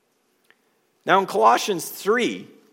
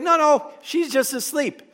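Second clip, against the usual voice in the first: lightly dismissive; 9 semitones higher than usual. Retold or imitated. Jesus voiced, calm dismissal.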